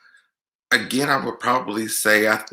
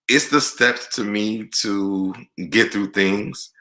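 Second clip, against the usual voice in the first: teary; much slower than usual. Real, not acted. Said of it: "I did not come here to cry".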